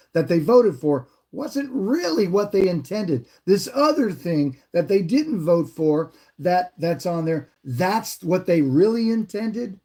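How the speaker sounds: slow, pointed, mounting disbelief; slow indignant challenge. Retold or imitated. To the clerk, slowly questioning the statute in disbelief. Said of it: "you don't have to get angry".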